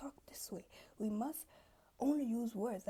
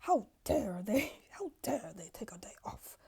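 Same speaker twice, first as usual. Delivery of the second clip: shocked gossip; 4 dB louder than usual. Retold or imitated. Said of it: "everybody's like".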